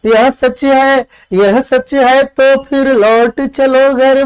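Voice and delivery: measured, sing-song verse reading; teacher reading classical Hindi verse aloud; poem recitation. Acted. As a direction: recite the poem line by line with feeling.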